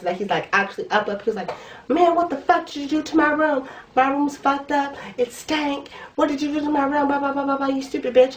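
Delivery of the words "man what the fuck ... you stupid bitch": higher, whiny imitation of a hungover guy ranting; lightly voiced annoyed college boy; mock angry guy. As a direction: mimic his complaining rant in a higher voice. Voicing the angry guy's rant.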